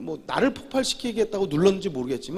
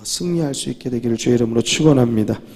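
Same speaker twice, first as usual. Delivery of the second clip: loud, emphatic preacher's blessing; ringing sermon benediction; preaching blessing; 5 semitones lower, 8 dB louder than usual. Real, not acted. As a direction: proclaim it over the congregation.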